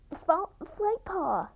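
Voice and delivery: high, slow, loud call of a name. Acted. Littermate calling Flightpaw from across camp. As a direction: shout across the camp for her.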